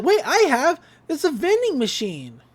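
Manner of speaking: high, loud burst of discovery; excited realization. Retold or imitated. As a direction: blurt it out like a sudden eureka. Mabel discovers the code's meaning.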